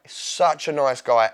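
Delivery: such a nice guy, slowly and deliberately; slow emphatic repeat. Real, not acted. Guest repeating his praise of his co-star, slow and emphatic. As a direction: lean on each word to drive it home. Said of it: "he was such a nice guy".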